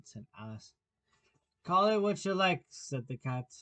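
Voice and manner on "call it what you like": lightly voiced sly grinning cat, amused; a hint of a grinning cat, unhurried; Cheshire cat voice. Cat dismisses Alice.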